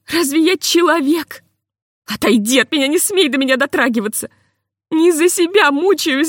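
wife lashing out through tears; sobbing outburst. A narrator's reading. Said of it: "повалилась грудью на стол и зарыдала".

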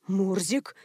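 a soft, puzzled echo of the word, rising at the end; quiet echo. A narrator's reading. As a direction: repeat it back softly in disbelief. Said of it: "эхом повторила пограничница". (тихо и растерянно переспрашивает «Мурзик?»)

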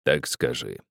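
put-on low, slow and weighty, an old miner's command; old miner giving the maid an order, low and weighty; weighty old man. A narrator's reading. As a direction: speak low and solid, like an elder who expects to be obeyed. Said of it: "наказывал он с обычной внушительностью".

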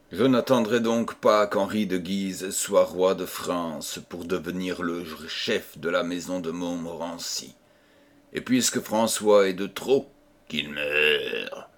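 low, soft, menacing; quiet sinister vow; cold murderous resolve. Acted.

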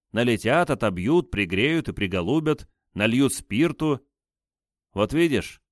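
sly threatening interrogator; taunting interrogator. Acted. Second interrogator voiced.

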